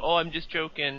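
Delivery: ordinary delivery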